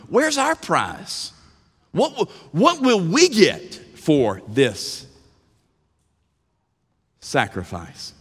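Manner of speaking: high, slow Peter asking for his reward; demanding Peter. Retold or imitated. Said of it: "Peter says it".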